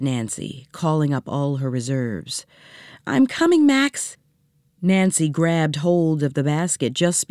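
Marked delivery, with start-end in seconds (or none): 3.1-4.2 high, urgent call across water. Acted. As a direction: shout it out as she swims. Calling out to the baby.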